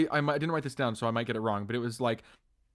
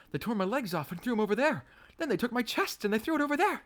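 much higher silly Scarecrow voice; hammed-up Scarecrow complaint; Scarecrow impression; 10 semitones higher than usual. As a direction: play the floppy Scarecrow, rising higher. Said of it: "The Scarecrow goes".

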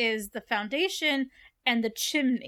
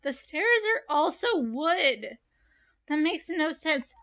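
incredulous retort; 3 semitones higher than usual. Retold or imitated. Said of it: "And I'm like".

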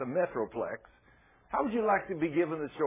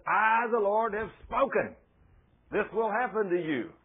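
mock divine pronouncement; 6 semitones higher, 4 dB louder than usual. God's pronouncement voiced.

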